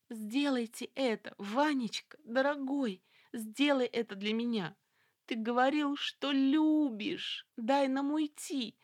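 high, slow desperate pleading cry; heartrending yelling. A narrator's reading. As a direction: yell it with your voice straining. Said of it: "надрывно орала Люсьен". (надрывный крик)

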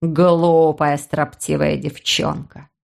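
low, slow lecturing voice; a fatherly scold, low; scolding man. Acted. Brother scolding sister.

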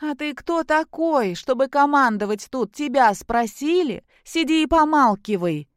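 put-on high, loud, drunken attack on the helper; drunken snapping. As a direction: snap at him like a drunk woman. Drunk daughter snaps at helper.

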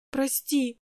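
soft, small sobbed sorry; little sister sobbing an apology to her brother. A narrator's reading. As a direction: whimper it through tears. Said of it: "всхлипнула она".

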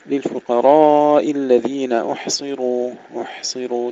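slow chant, "أحصروا" with breathed ح and full ص, ر; still ha, heavy sad. Shown as a demonstration. Teacher recites and drills the word, still ha. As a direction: keep ح unbounced, thicken ص and ر in "أحصروا". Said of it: "تسكين الحاء بدون قلقلة".

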